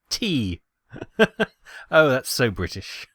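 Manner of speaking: bursts of real laughter; laughing. Real, not acted. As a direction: laugh out at the joke. Laughing at tea cargo.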